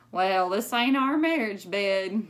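hammed-up country grandpa; folksy Gramps quip. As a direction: deliver it as a grandpa's gag. Gramps joke.

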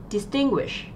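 "distinguish" with the middle syllable stressed; second-syllable stress. Shown as a demonstration. Teacher reads out an answer choice, second-syllable stress on "distinguish". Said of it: "trọng âm rơi vào âm tiết thứ hai".

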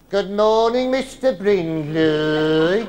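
slow drawn Birmingham accent, Mister stretched. Shown as a demonstration. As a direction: chant it the Birmingham way. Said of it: "like this".

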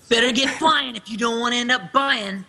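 youthful character taunt; casual teen taunt; Hayner line. Acted. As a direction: toss it off as a cocky teen. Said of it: "Is this the Better Get Flying one?".

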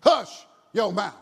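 loud, slow mock reprimand; sharp hushing. The multitude orders the blind men silent, loud hushing. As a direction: shut them up forcefully, drawn out.

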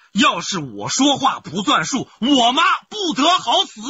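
slow, high, loud vow; shouted oath. Acted. Husband shouting a vow to convince his wife. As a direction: swear it out loud, slowly.

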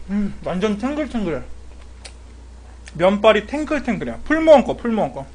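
chewing while talking; speaking between slurps; mouth full of noodles. Real, not acted. Seen 0: Slurps noodles into mouth, then chews with full cheeks throughout.

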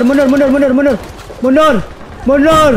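real urgent shout to pull back; shouted retreat. Real, not acted. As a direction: bark the order to fall back. Calling retreat to squad.

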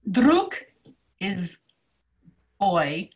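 ordinary talk, nothing marked

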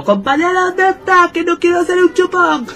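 high, pleading call for a teammate. Retold or imitated. Player retelling how he called his teammate, high and pleading. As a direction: call out as if looking for him. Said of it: "yo estaba llamándolo".

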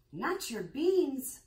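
high, loud, slow outraged cry. A narrator's reading. Scipito cries out at the bean thief, outraged and loud. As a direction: wail it in outrage. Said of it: "cried Scipito, outraged".

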